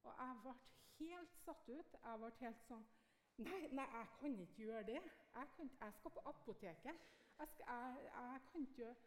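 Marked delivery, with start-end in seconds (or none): 3.4-9.0 flustered excuses. Retold or imitated. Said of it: "begynte å bortforklare".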